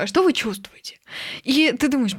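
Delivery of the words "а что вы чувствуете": whispering. Retold or imitated. Psychologist quoted asking gently.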